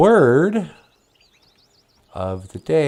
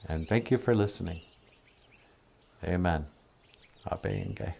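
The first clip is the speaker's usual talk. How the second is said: hushed prayer; 4 semitones lower, 8 dB quieter than usual. Real, not acted. Prayer fading to a hush.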